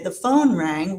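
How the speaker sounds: phone and rang both accented; stress on phone and rang. Shown as a demonstration. Linguist demonstrating English answer, phone and rang stressed. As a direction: give phone and rang a prominence each. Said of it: "with a prominence on the phone".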